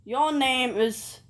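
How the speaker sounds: slow, British announcer voice; drawn-out British game host; British accent. Pretend. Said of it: "Do it in your British accent".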